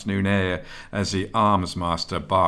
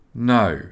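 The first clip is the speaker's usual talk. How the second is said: "No" loud and raised in pitch; emphatic; 4 semitones higher, 6 dB louder than usual. A narrator's reading. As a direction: hit "No" hard as a firm refusal. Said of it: "replied emphatically".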